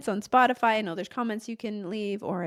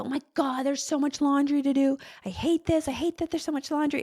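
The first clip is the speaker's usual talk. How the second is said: higher, mock whining; mock whiny complaint; 5 semitones higher than usual. Overwhelmed clothes owner moaning about laundry, mock whiny. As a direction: whine about the pile, half-joking.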